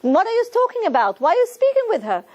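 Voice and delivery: a stern officer snapping at a prisoner, mock shout; retold Gestapo shout. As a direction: bark it like a harsh guard, hammed lightly. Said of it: "he shouted".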